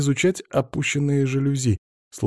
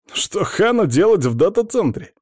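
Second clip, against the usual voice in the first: more surprised; 10 semitones higher, 5 dB louder than usual. A narrator's reading. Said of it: "ещё больше удивился Биткоин".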